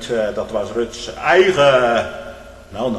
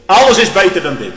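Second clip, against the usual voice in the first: mock desperate cry; 6 semitones higher, 11 dB louder than usual.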